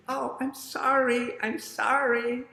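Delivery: high sing-song apology; apologetic hen. Acted. Miss Hen apologizes to Miss Pig, high sing-song. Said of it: "And Miss Hen says".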